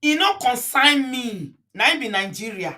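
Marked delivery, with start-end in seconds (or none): 0.0-1.5 slow, weighty pidgin repeat; slow deliberate repeat. Shown as a demonstration. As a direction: drag it out, heavy with irony. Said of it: "repeats the quip slowly".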